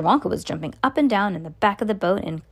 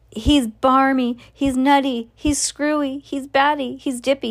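higher, chanted list of insults; raised-pitch mock outcry; storybook shout; 5 semitones higher than usual. A narrator's reading. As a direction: rattle off accusations as outraged parents. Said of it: "they shouted".

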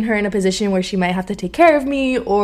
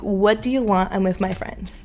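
stern; 4 dB quieter than usual. Shown as a demonstration. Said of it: "And I say it just like that".

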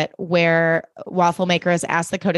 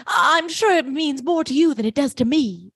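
mock flustered woman; 8 semitones higher than usual. Elizabeth's line, acted.

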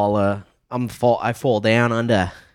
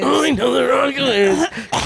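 mocking imitation; 12 semitones higher than usual. Mocking friend's phrase.

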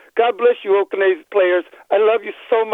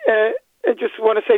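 choked up. Real, not acted. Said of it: "I'm very emotional".

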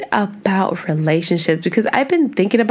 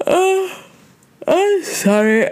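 yawn; 11 semitones higher, slower than usual. Real, not acted. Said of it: "I start yawning".

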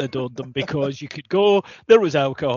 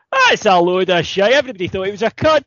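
put-on drunken loud aside; 4 semitones higher, 5 dB louder than usual. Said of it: "sotto voce, but not".

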